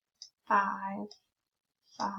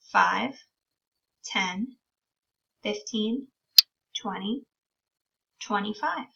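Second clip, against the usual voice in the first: put-on teaching a child to count. Shown as a demonstration. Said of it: "Can you count with me?".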